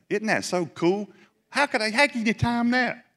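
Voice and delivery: can't believe the timing, voice jumps up; amazed. Real, not acted. Preacher marvelling to the church at God's timing, amazed.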